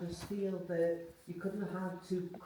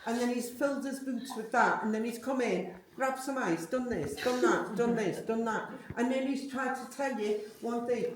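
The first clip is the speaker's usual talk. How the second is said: excited; 5 dB louder than usual. Real, not acted. Lively laughing account of spirit.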